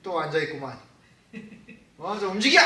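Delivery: mock grumble into a command; acted irritated nagging of a wife; grumble, then order her to move; imitated annoyed husband. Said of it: "여사관한테 짜증내요".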